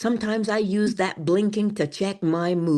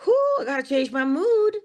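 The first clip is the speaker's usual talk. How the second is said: riled up; 7 semitones higher, 4 dB louder than usual. Acted. Riled up, catching herself.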